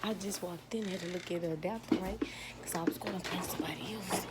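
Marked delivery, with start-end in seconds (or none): 2.6-4.3 very soft hushed whisper. Real, not acted. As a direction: barely breathe the words. Whispering beside sleeping target.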